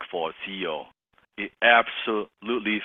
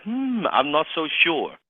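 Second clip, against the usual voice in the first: drawn-out, doubtful hum and reply; hesitate, unsure, stretching the words; hesitant; 7 semitones higher, slower than usual. Acted. Prospect doubting a closer who sounds unsure, hesitant. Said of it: "if there's hesitation in my voice".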